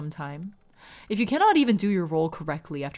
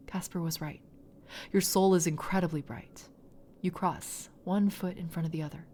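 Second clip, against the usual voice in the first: story narration. A narrator's reading. GM narrates the soul crossing.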